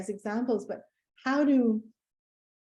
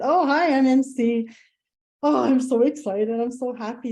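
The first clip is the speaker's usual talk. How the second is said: gushing excitement; 5 dB louder than usual. Retold or imitated. Greeting husband's hated boss.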